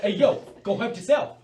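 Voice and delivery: high, loud squeaky rat laughing through it; cocky little rat squeaking; squeaky bickering rat chorus. Acted. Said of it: "the rat speaks like that".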